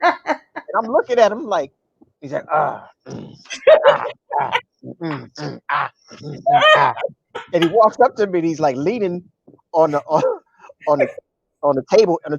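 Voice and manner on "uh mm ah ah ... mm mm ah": short grunts of holding it in; mock straining grunts. Comedian shows friend fighting bubble guts, grunting. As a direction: imitate pained, broken groans and hums.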